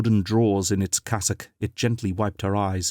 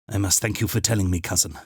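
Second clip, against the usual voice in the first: formal; faster than usual. Acted. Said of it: "added formally".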